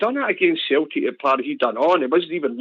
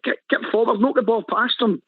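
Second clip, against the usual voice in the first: higher, urging call to a winger; mock yell from the stands; 6 semitones higher than usual. Fan retelling how he yelled at the winger, a mild mock yell. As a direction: shout him forward from the terraces. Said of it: "screaming it".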